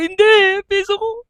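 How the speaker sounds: high mock-sobbing for the coin; hammed-up drunk sob; drunk crying. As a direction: wail about the lost coin. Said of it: "Iyak daw siya".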